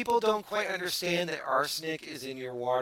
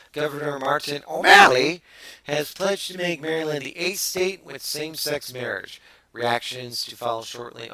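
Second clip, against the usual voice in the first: news read; 2 semitones higher, 6 dB louder than usual. Acted. Host reading Maryland marriage bill story, news read.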